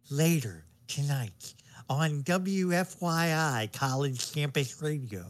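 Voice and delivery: slow, smooth college radio DJ promo; radio announcer voice. Acted. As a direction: read it like a late-night station announcer. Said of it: "How many times have you practiced that?".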